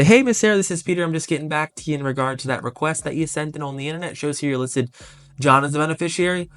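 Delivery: bright sales-call greeting. Retold or imitated. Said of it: "and I'd say".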